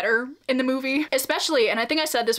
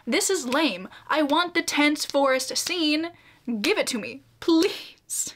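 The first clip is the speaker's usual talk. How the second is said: mock demanding; 3 semitones higher, slower than usual. Acts out her own fan demand.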